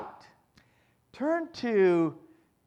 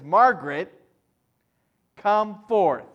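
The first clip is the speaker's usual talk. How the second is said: calling out; 6 dB louder than usual. Pretend. Jesus calling the dead out.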